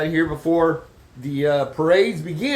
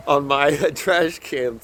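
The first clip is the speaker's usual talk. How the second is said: laughing; 2 semitones lower, slower than usual. Real, not acted. Laughing at ice on can.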